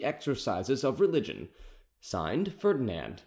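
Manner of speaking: stately reading of a royal order; formal decree reading. A narrator's reading. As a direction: announce it like an official edict.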